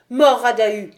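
loud hostile cry of the mob; crowd's cry. Acted. Townsfolk cry death to Dahu, loud. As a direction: shout it as the angry crowd at the gate. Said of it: "ce cri".

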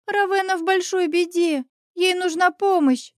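put-on high urgent girl's voice, almost crying out; little witch begs for help, almost shouting; near-shout little girl. A narrator's reading. Little witch almost shouts to the heroine for help. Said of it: "чуть ли не прокричала она".

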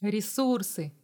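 plain reading voice

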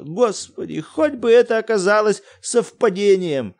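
frantic, losing the thread; incoherent cries. Acted. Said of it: "Бессвязно выкрикивал". (бессвязно выкрикивает в ужасе)

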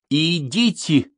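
high, slow shouted go; shouted order. A narrator's reading. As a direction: send him off with a shout. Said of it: "крикнул он мне".

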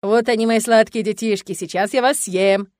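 loud, slow mock-menacing growl; playful monster. Monster father teasing his children, playful mock threat. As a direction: pretend to eat the kids.

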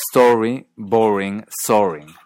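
"Story, boring, soaring" with rounded aw-o; closed o. Shown as a demonstration. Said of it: "El segundo aparece".

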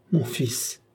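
tender, understated sigh of a father; paternal tenderness. A narrator's reading. Dying father repeats the word for his son, tenderly. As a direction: say it with a touch of fatherly longing. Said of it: "avec un élan de tendresse paternelle".

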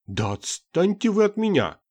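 high, loud angry outburst; flaring up. A narrator's reading. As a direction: snap at him furiously. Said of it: "вспылила Гертруда Армаисовна". (вспылив, громко и высоко)

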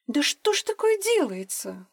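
almost cry it out in dismay; near exclamation. A narrator's reading. Irina reacts to the news, half exclaiming. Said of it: "почти воскликнула Ирина".

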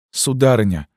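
put-on terrified girl crying out to the recluse; exclamation. A narrator's reading. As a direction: cry out for mercy. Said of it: "воскликнула она".

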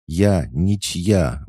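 high, slow protest; a mild, sighing protest; defiant sigh. Acted. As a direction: draw it out, proudly independent. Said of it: "вздохнула Стеклоглазка".

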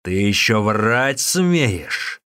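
loud, very slow bellow; hungry monk still yelling at the innkeeper; angry yell. Acted. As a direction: drag out the accusation in a roar. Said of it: "продолжал орать".

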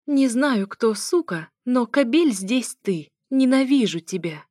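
furious. A narrator's reading. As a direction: fling the hate at him.

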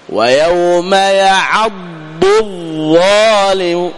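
very slow ويوم يعض الظالم, ض and ظ apart; careful recitation. Shown as a demonstration. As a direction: recite slowly, letter by letter. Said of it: "تنطق الضاد ثم الظاء".

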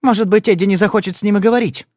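high, fast taunting woman. Acted. Marti taunts Padler about Mr Troy. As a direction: needle him with scorn.

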